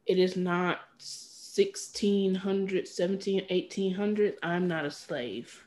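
slow, quiet and measured, putting a foot down; firm refusal. Acted. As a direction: draw it out softly and firmly.

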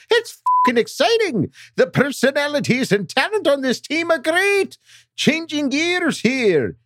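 upbeat, pumped-up fan reading; excited fan voice. Acted. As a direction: hype it like a diehard fan. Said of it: "Let's move it on now to Coach Lago".

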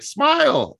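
squeaky high Russian "Smile!"; Russian accent. Retold or imitated. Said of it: "that's my Russian accent".

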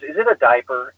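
mildly condescending imitation of a flight attendant; a touch of disdain in the question. Flight attendant questions passenger's trash, mildly condescending. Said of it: "with this real condescending tone".

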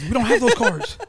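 high, loud comic yell; Will Ferrell yell. Retold or imitated. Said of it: "He's like".

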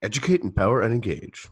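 lightly voiced dopey slogan read; George's dopey voice. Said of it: "George's dopey voice on that".

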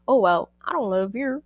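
lightly attempted, clumsy Irish accent; horrible Irish accent. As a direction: try an Irish accent and do it badly. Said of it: "my horrible attempt at an Irish accent".

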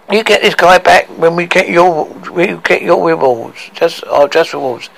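lightly voiced dwarf setting terms; demanding dwarf Tricky.

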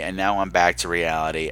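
low and earnest, waxing poetic; sincere. Real, not acted. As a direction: say it softly, deeply moved. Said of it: "I was trying to make a huge point".

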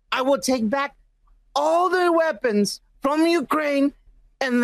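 lightly voiced, clumsy impression with deliberate pauses; Donald Trump. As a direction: read it as a half-hearted politician parody. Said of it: "that is the worst fucking Trump reading".

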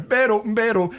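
hoarse imitation of a singer. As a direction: croak it like a singer warming a sore throat. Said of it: "he's going".

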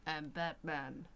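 a slow, low mock Batman growl. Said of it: "Christian Bale doing Batman".

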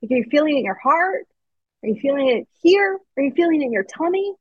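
mock gentle mother asking questions; gentle mom. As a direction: coax a small child kindly. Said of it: "My mom would be like".

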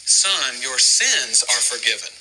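slow, low and gentle, like Jesus speaking; gentle forgiving voice, slow and low; tender. Retold or imitated. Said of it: "he says this".

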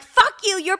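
high-pitched mock-tearful protest; retold tearful outburst. Daughter re-enacts crying back at her mom, mock upset. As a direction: cry it out in an acted huff. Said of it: "so now I'm crying".

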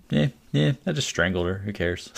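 breezy uncaring shrug; matter-of-fact. Retold or imitated. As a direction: brush it off casually. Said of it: "he talked about it so matter-of-factly".

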